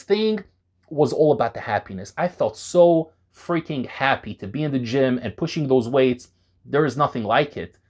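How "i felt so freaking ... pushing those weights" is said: ordinary talk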